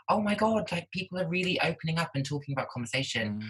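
high-pitched, moved self-quote; retold heartwarmed amazement. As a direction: recall being touched and amazed, pitched high. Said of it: "it was so heartwarming".

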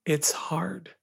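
soft unvoiced whisper; a mother's quiet admission, whispered. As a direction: breathe it like a gentle confession. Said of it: "if my mom had once... said".

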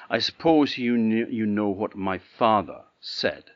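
lofty, disdainful princess; loud and haughty, a princess scorning a servant. Acted. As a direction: look down your nose at the gardener. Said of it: "in a rather a haughty voice".

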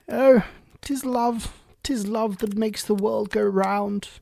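high, slow, grand pronouncement; sing-song grande dame moral. Acted. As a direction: intone it like a pompous duchess. Duchess pronounces her moral.

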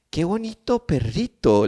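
put-on talking to a child. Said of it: "le digo yo a la chiquita".

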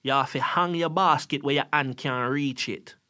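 put-on grandma's Jamaican accent, lightly done. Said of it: "in her Jamaican accent".

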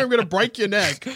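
barbarian. Pretend. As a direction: roar it like a barbarian. Threatening the Green Goblin.

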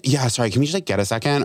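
still rude-sounding. Retold or imitated. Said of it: "the second time you said it, it also sounded rude".

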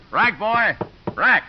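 loud call across the pool hall; barked order at his son. Acted. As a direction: shout the order to the boy. Father calls son to rack.

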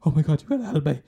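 high desperate mock pleading; panicked trapped man. Trapped man begging to be rescued, high frantic mock plea. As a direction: beg for help in a high panicked squeal. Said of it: "and he's like".

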